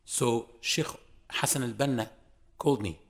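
ordinary delivery

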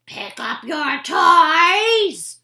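loud, slow scolding yell; mother toad yelling at squabbling toadlets, loud slow scold. Acted. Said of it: "he heard yelling inside".

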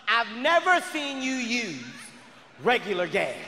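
slow, pointed accusation; mock-accusing partner, drawn out; accusing girlfriend. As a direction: draw out the suspicion word by word. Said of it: "whenever you argue with your man".

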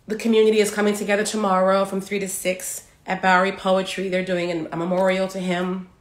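holding back tears, voice trembling; shaky voice. Real, not acted. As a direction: voice shaking with grief. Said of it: "Sorry, my voice is shaking".

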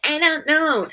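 put-on high, wailed little-kid reply; retold upset child. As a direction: imitate a flustered small child. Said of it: "I was like".

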